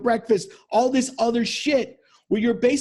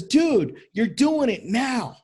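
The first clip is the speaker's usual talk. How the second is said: blunt call-out; 3 semitones higher, slower than usual. Retold or imitated. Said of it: "the guy looks at him and says".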